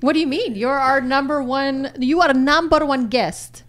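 put-on light Polish accent on English. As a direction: speak English with a hint of Polish. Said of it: "Is that your Russian accent?".

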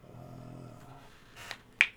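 deep, low monster grunt; dinosaur voice. Acted. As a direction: grunt like a hulking brute. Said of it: "he goes".

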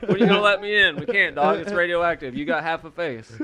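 high, loud begging voice; pleading outsider voice. Retold or imitated. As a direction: beg to be let in.

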